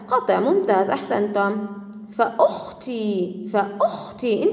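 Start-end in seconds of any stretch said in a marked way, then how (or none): 2.2-4.5 slow فأختي with glottal stop after fa; hamza pronounced. Shown as a demonstration. Teacher tells pupils to heed the sound, hamza pronounced. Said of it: "انتبه إلى اللفظ".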